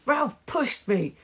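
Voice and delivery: high-pitched complaint; shrieked. A narrator's reading. Child reporting a push, high shriek. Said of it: "shrieked Aerobic Owl".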